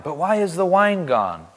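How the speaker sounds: lightly hammed-up movie-line parody; Pirates of the Caribbean quote. Pastor slips a film line into scripture reading, lightly hammed-up parody. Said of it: "That's a Pirates of the Caribbean reference".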